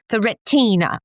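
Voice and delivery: retina said the British way, with a clear t, "re-ti-na"; a quick British-accent "The retina.". Shown as a demonstration. Optometrist jokingly says "The retina." in a British accent. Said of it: "Or should I switch to the British accent?".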